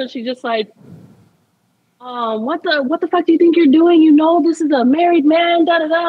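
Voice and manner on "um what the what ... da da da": raised, higher-pitched mock outrage; angry confrontation. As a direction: imitate an angry wife confronting the other woman. Retold angry confrontation call.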